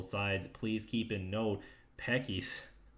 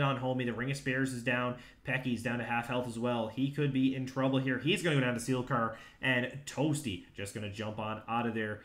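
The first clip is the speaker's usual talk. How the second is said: steady, running live commentary; esports play-by-play; 2 semitones higher, 4 dB louder than usual. Acted. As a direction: follow the fight blow by blow.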